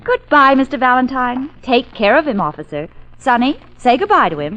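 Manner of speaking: loud mocking taunt. Secretary taunting her arrested boss, mocking. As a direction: rub it in with mock sweetness.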